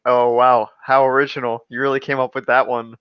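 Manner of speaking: dry mock-impressed sarcasm; deadpan unimpressed sarcasm; sarcastic wow. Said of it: "it's more like".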